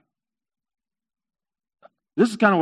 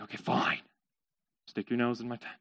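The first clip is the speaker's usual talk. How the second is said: sighing, low and very soft; weary giving in; 8 semitones lower, 14 dB quieter than usual. Acted. Merchant to pestering camel, wearily giving in. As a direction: concede grudgingly under your breath.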